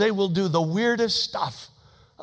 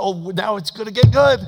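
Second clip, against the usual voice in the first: eager aside; 6 dB louder than usual. Retold or imitated. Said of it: "And I thought".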